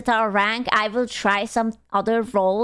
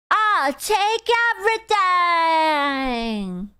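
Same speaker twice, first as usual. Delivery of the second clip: put-on southern accent; 6 semitones higher than usual. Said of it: "this, like, southern accent".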